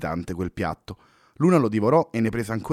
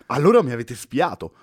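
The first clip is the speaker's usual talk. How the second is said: louder, jolted and accusing; startled accusation; 3 semitones higher, 5 dB louder than usual. Acted. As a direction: jump at it, caught off guard. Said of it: "sobbalzò Fernando".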